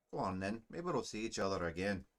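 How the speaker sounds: put-on Scottish-accented dwarf soldier; amateur Scottish brogue for a dwarf. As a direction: speak like a Braveheart Scot. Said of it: "Scottish accent".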